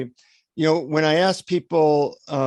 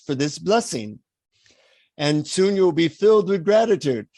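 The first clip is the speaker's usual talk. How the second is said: put-on patient guru instructing, Indian accent; imitated Indian guru; 4 semitones higher than usual. Guru instructing annoyed visitor on gratitude, Indian accent. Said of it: "he says in his Indian accent".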